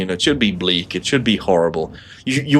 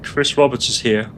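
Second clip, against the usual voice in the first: lightly Kermit-like mock whisper; 3 semitones higher than usual. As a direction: croak it like a puppet frog. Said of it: "I sound more and more like Kermit".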